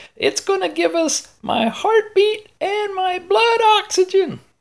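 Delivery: strained, very high put-on voice. Explaining what the watch will show, speak in a put-on high voice. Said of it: "it's hard to keep that high voice".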